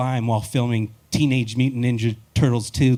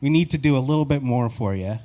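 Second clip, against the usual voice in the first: movie studio voice; 4 semitones higher, 3 dB louder than usual. Retold or imitated. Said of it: "They're like".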